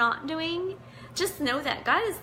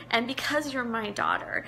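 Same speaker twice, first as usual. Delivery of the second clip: teary-eyed. Real, not acted. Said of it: "you can tell I'm a little teary-eyed".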